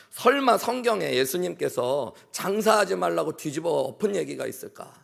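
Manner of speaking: mildly indignant inner protest; retold indignation. Young churchgoer silently objects to the drunk merchant's accusation, mild retold anger. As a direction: protest with a touch of offended disbelief. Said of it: "화가 났어요".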